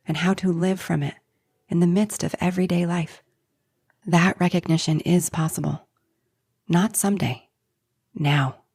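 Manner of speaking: measured, polished invitation to a course; scripted podcast promo; promo read. Acted. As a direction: read the announcement in short, deliberate phrases. Reads promotional invitation for series.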